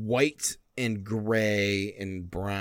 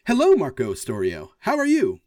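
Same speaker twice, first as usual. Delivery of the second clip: higher, bright robot voice; cheerful robot greeting; 3 semitones higher, 5 dB louder than usual. Acted. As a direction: greet him like an eager machine. Forge character greets Marco.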